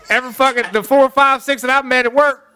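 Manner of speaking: excited insistence. Real, not acted. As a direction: push it out, insisting. Excited claim about coworkers.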